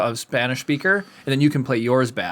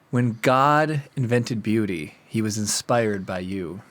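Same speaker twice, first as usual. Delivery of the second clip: cheesy pickup line; 4 semitones lower, 3 dB quieter, slower than usual. Retold or imitated.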